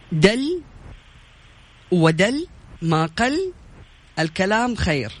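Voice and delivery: reversed proverb, slow with long pauses; backwards speech. Shown as a demonstration. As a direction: read the jumbled words out one by one. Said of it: "هذه كمان أديكي واحدة بسيطة".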